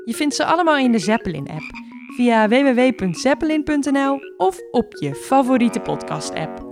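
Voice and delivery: plain reading voice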